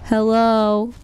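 very loud, ringing "Hello"; demonstrated loud hello. Shown as a demonstration. Streamer showing how to say hello, very loud. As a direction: belt out the greeting. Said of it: "you say it like this".

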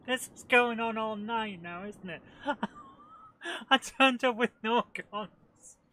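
loud and high, laughing at himself. Real, not acted. Gamer still laughing loudly at his own blunder. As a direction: howl with laughter at your own mess-up.

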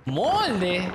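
drawn-out, incredulous MOLDE with a pitch leap; incredulidad. Real, not acted. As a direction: stretch MOLDE and swoop up in disbelief. Repite incrédulo la palabra desconocida. (molde alargado, con tono incrédulo)

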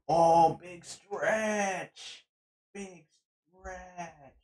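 talking to a dog. Real, not acted. Dog stretching.

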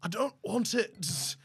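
slow, lightly voiced brooding hero; a slow, reluctant mock-hero line; Jon Snow. Asked to play Jon Snow refusing, slow hero voice. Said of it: "Do Jon Snow".

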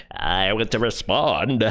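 slow, put-on drawl of the host; mocking his voice. Co-host mocks the host's slow delivery. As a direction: stretch it out like him. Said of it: "Why does he speak like that?".

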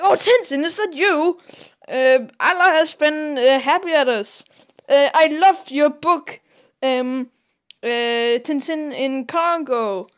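high, loud gushing fan greeting; excited fan. Retold or imitated. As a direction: gush over Tintin like a starstruck fan.

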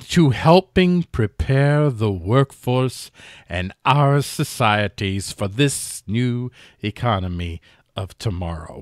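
slow, lightly snooty British reading; haughty, deliberate put-on British delivery; snooty mock-British accent. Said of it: "read it in a very snooty way".

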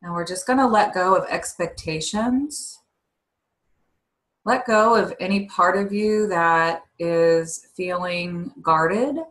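slow, measured breathing-exercise guidance; guided meditation. Real, not acted.

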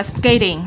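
SKATING with the T softened to "skay-ding"; flapped T. Shown as a demonstration. Teacher offering learners an alternative, SKATING with flapped T. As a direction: tap the T in SKATING like a quick D. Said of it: "T trung âm ở đây".

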